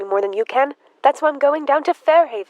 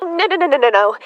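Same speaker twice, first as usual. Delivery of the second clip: flustered refusal; 2 semitones higher, 3 dB louder, faster than usual. Acted. Emma pushes visitor away at door.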